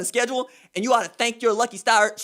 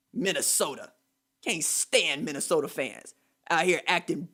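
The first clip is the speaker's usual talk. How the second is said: much lower and softer; disgusted mutter; 7 semitones lower, 6 dB quieter than usual. Real, not acted. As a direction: grumble it under your breath. Host scoffs in disgust.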